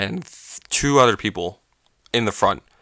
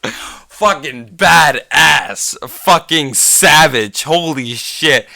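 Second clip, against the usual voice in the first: slow, higher, louder words through laughter; real laughter, drawn out and raised; laughing in delight; 4 semitones higher, 5 dB louder, much slower than usual. Real, not acted. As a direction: crack up while praising him. Speaker cracks up at the story.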